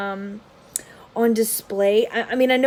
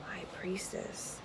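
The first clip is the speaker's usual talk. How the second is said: whisper; 3 semitones lower, 19 dB quieter, slower than usual. Real, not acted. Naming tarot cards aloud.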